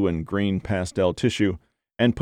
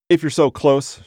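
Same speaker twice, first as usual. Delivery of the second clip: sharp, higher and louder retort; snapped; 7 semitones higher, 4 dB louder than usual. Acted. Woman snapping at her boyfriend about his dog. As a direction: snap it back at him, stung. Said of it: "she snapped".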